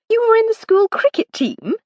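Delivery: thrilled, amused disbelief; delighted. A narrator's reading. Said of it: "she asked delightedly".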